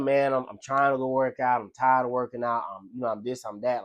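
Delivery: tired, grumbling inner voice; weary self-talk. Shown as a demonstration. Telling himself he is tired of working out, weary and grumbling. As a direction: grumble to yourself about the gym. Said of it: "You see how that tone is different?".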